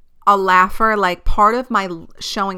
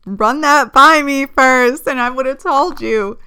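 mock scolding; 5 semitones higher, 4 dB louder than usual. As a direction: drag it out like a scolding big sister. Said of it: "I'm just like".

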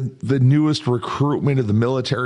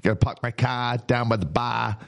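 mock Boston accent. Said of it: "Gotta do it like you're from Connecticut".

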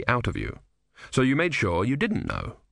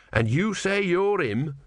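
slow, higher doubtful tortoise; slowly doubting tortoise; 7 semitones higher, slower than usual. Acted. Tortoise voice in narration.

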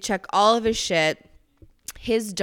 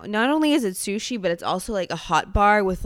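upbeat commercial pitch, quicker; ad read voice; faster than usual. Shown as a demonstration. Pitching the sushi buffet to the audience, ad-read style. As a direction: sell it like a radio ad. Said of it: "I'm doing an ad now".

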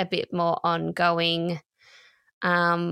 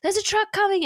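high mock yell of warning; calling out the danger, lightly; retold yell; 13 semitones higher, faster than usual. Husband warning the family about the truck, mild mock yell. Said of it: "His yelling was".

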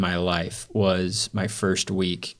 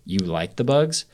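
disbelieving question rising on "bugs"; taken aback, condescending; slower than usual. Retold or imitated. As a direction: repeat it back as a mildly judging question. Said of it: "was taken aback by that".

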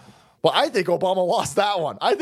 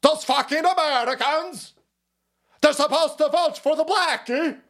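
much higher, slow, put-on sneering voice; mock Davos villain; 10 semitones higher than usual. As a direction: ham up a cartoon elitist's rage. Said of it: "a bunch of lizard people at Davos, like".

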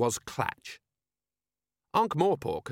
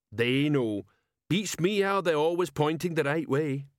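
dim troll, slightly higher; 4 semitones higher than usual. Acted. Troll sergeant asking his commander, dim troll voice.

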